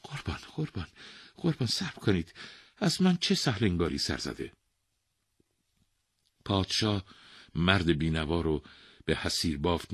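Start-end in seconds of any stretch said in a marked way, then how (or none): 0.0-4.5 worried. Acted. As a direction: ask nervously, hurried. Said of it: "با نگرانی پرسید".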